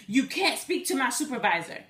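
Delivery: mildly indignant mock refusal; upset scammer. Scammer refusing her request for a supervisor, mildly upset. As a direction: imitate a caller getting testy. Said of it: "really getting upset".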